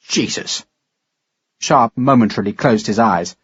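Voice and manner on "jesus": breathed out, barely voiced; stunned whisper. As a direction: let the word escape in shock. Stunned at the news.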